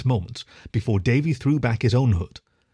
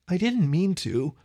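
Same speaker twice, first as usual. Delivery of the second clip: slow, high indignant whine; indignant cry; 7 semitones higher, slower than usual. A narrator's reading. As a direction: protest like a wronged young fox. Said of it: "the fox cried indignantly".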